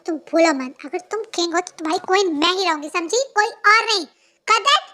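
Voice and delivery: loud possessive shouting; jealous yelling. Acted. Jealous girlfriend yelling at Jungkook that she is his only queen, angry shout. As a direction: lay down the law, furious.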